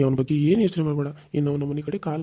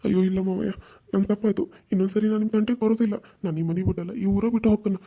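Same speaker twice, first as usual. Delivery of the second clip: pleading; 4 semitones higher than usual. Acted. Nephew begs uncle for mercy.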